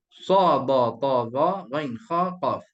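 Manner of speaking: heavy letters recited in a rhythmic string; drilling "ghain, kha, qaf" as a grouped list; memorisation drill. Shown as a demonstration. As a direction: chant "Sa, ba, ta, za" in even beats. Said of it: "Hafal macam tu".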